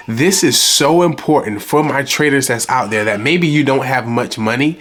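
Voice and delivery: muffled, congested voice from covid; sick and stuffed up, muffled. Real, not acted. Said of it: "if I sound, like, extremely muffled right now".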